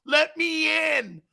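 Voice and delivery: high, slow, creepy plea; Poltergeist ghoul voice. Retold or imitated. Host mocking the owner with a Poltergeist ghost voice. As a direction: moan it like the ghost at the door. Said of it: "Looks like the guy on Poltergeist".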